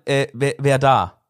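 slow questioning tone, rising on da; asking who is there. Shown as a demonstration. Host models asking "wer da?" as a question. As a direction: ask "wer da?" slowly like a real question. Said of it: "Denk mal, du fragst gerade".

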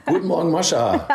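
laughing greeting. Real, not acted. Laughing playful morning greeting.

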